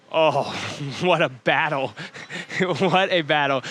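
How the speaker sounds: real chuckles between the words; amused, breaking into laughs as you exclaim; laughing. Real, not acted. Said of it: "I'm laughing 'cause I know".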